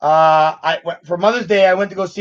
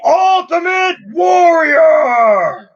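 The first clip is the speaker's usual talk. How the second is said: excited; 10 semitones higher, 4 dB louder, much slower than usual. Real, not acted. Childhood fan excitement.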